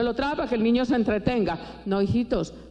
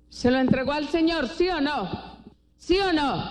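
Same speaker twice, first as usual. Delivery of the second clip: higher, pressing call for a response; insistent questioning; 4 semitones higher than usual. Real, not acted. Preacher asking the congregation whether it was handed over, insistent questioning. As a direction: press the crowd to answer.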